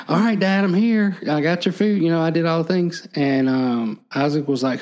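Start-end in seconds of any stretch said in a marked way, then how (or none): 0.1-3.1 eager Esau. Retold or imitated. Esau voiced arriving with food.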